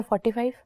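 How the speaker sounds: "forty-five" rising as if asking; questioning tune. Real, not acted. Candidate answering the interview panel on MP numbers, questioning tune. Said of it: "Are you asking or telling us?".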